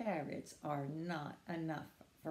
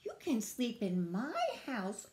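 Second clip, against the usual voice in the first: mildly raised, easy invitation; friendly offer; 4 semitones higher than usual. Acted. Squirrel offers the friends a bed, mild friendly invitation. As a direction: offer it without calling out. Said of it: "offered Squirrel".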